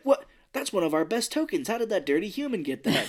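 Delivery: imitating frog guy. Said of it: "he's like".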